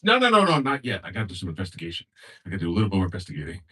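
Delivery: loud no's then rushed excuse; husband begging wife not to call; panicked husband. Acted. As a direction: backpedal fast.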